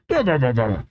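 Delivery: mock giant's belly laugh, "bah" repeated; Brogy. Giant laughing off the explanation, mock "bah-bah" laugh. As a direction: chant out a half-acted "bah, bah" laugh. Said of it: "Brogy says".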